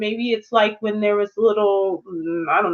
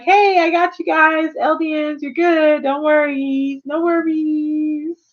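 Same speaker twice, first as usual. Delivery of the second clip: lightly voiced Eren; 4 semitones higher, slower than usual. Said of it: "And he's like".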